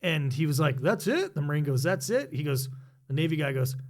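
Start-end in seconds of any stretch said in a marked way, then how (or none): 0.8-1.3 high, rising disbelief; imitated Marine's puzzled query, pitched up; retold incredulous question. Retold Marine doubting the offense. 1.8-2.3 mildly disbelieving, higher rising question; imitated Marine's doubtful echo; retold incredulous question. Retold Marine repeats his doubt.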